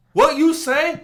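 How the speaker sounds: very high, rising mock challenge; indignant old man. Old Asian guy confronting the other man, indignant. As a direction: imitate an affronted old man.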